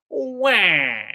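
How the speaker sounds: mocking crybaby wah; sarcastic fake crying wah; mock baby wail. Mocking a tantrum.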